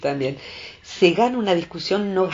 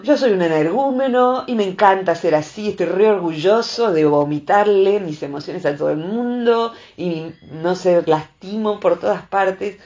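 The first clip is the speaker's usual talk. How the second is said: mock proud boor; 3 dB louder than usual.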